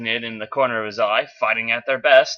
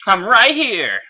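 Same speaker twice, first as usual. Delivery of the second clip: loud confident call, higher; better take shout; 7 semitones higher, 4 dB louder, slower than usual. Acted. Bumblebee revealing himself to Megatron, confident loud call. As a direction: call out firmly to announce yourself. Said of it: "say that a little bit better".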